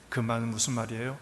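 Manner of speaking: usual speaking voice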